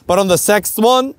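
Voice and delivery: "sixth" said "sekst" in a German accent. Real, not acted. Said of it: "my German accent coming through".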